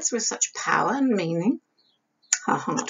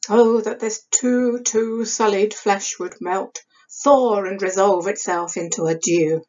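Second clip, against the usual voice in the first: passionate Hamlet. Acted. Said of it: "building up Hamlet's passionate conflict".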